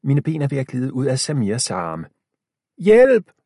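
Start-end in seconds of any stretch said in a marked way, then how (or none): 2.8-3.3 high, loud cry; shouting for help. A narrator's reading. Milo grabbed by a zombie, screaming for help. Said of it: "råber jeg".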